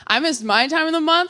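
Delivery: high, full-voiced setup with MY; comic self-contrast. Abstinent teen telling her own scare, high and full-voiced. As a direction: pitch it high, turning it to "my".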